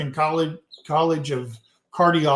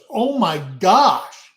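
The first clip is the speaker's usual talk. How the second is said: mock exasperation; 4 semitones higher, 5 dB louder, slower than usual. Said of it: "She goes".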